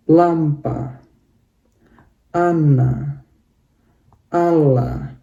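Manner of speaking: eta, fota, mama, papa, lampa, ana, ala with stress on the first syllable; word list demo. Shown as a demonstration. Teacher modelling a word list, first-syllable stress. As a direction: read each word with the rise on the first syllable. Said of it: "Kita bacanya jadi".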